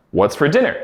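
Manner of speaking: weak "What's for", strong "dinner"; stress on dinner. Shown as a demonstration. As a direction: land the weight on "dinner". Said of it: "that's the strong part".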